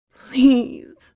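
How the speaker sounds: put-on high, drawn-out whimper of a boy; tearful whispered plea. Boy with gun at his head begging, crying softly. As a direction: beg in a small, tearful high voice. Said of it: "The boy cried softly and whispered".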